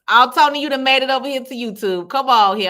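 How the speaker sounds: loud, high delighted welcome; excited greeting. Real, not acted. Welcoming Tony over from Facebook, loud delighted greeting.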